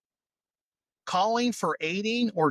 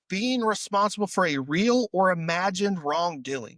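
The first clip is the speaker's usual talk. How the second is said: tipsy. Real, not acted. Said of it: "I'm a little tipsy".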